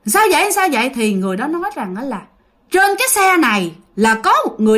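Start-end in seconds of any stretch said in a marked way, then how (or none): 0.1-0.9 1 ghosts asking. Acted. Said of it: "tụi nó mới hỏi rằng".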